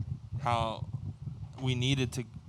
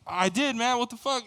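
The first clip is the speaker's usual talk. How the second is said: higher-pitched retold frustration; exasperated comeback; 9 semitones higher than usual. Traveler arguing back at the guard, exasperated retelling. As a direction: protest in mock exasperation.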